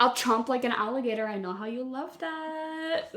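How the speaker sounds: giggling through a sultry line; laughing seductive tease. Pretend. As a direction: flirt while cracking up. Mock seductive quote, laughing.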